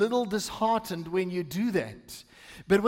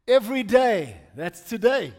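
punched, louder psalm phrase; emphatic scripture reading; 5 dB louder than usual. Acted. Pastor reading the psalm to the church, with firm emphasis. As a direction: hit both words firmly. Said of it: "read it with emphasis on different things".

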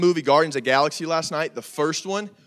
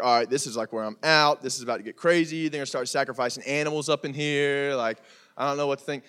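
low, softer voice of an uneasy newcomer; understated unease; mock wariness; 4 semitones lower, 4 dB quieter than usual. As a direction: imitate a sceptic backing out, pitched down. Voicing wary non-Christian listeners.

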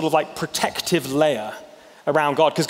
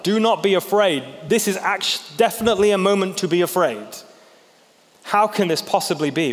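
incredulous; 4 semitones higher than usual. Retold or imitated. Disciples baffled at being told not to fear, incredulous. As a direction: repeat it like you can't believe what you heard. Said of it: "would have totally blown their grid apart".

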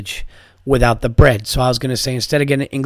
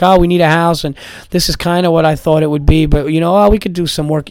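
higher-pitched imitation of settling house hunters; mock naive buyer; 4 semitones higher, 4 dB louder than usual. House hunters talking themselves into a fixer-upper, mock naive. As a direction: talk yourself into it, pitched up.

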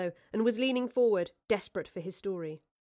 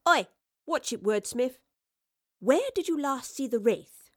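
scolding professor; 5 semitones higher, 5 dB louder than usual. A narrator's reading.

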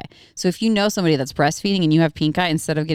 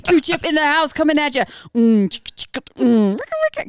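hyped rapper with beatbox; mock rap intro, hype it up; 7 semitones higher than usual. Trying out her new rap name.

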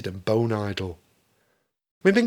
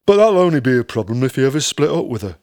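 quick aside; 5 dB louder, faster than usual. Acted. Rob teasing.

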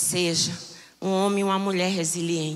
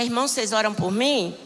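a quick, light mock of Brother Six O'Clock; mocking pew-sitter asking for prayer; mock lazy brother; faster than usual. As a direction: rattle off the lazy believer's plea. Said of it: "Irmão Seis Horas".

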